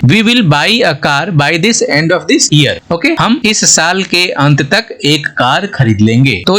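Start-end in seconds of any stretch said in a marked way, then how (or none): 0.0-2.9 slow, careful English example sentence; slow example read. Shown as a demonstration. Teacher reading an example sentence slowly to students. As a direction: spell out the meaning with a slow read. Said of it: "sentence में use करके और समझेंगे".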